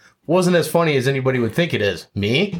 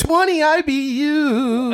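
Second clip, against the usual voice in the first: high, slow mocking echo; much slower than usual. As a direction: drag it out way up high, teasing. Mock repeat of beer stats.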